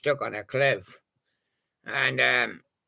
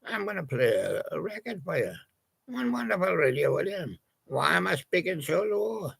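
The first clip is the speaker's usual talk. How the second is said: lightly raised, playful seal character voice; Icy the Seal voice; 3 semitones higher than usual. Acted. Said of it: "His voice goes something like".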